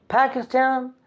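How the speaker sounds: "Pakistan" in a British accent, first a flat like in cat; British pronunciation. Shown as a demonstration. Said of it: "British people say it like this".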